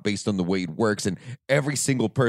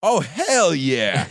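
drawn-out excited cheer; 4 semitones higher, much slower than usual. Real, not acted. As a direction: stretch it out with enthusiasm. Excited reaction to pumped guest.

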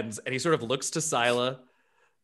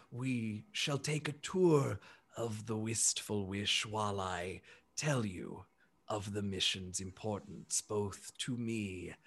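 low, soft, slow and earnest, opening almost whispered; a kindly giant inviting guests along; gentle elephant, hushed; 4 semitones lower, 9 dB quieter, slower than usual. Acted. Bertrand inviting the group on a ship tour, low, soft and slow.

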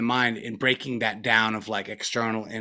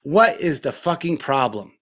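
higher, louder exasperated demand; retold anger at himself; 4 semitones higher, 3 dB louder than usual. Teacher reenacting yelling at his own mind on retreat, exasperated. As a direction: confront your own mind, fed up and pushing. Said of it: "got really angry and said to myself".

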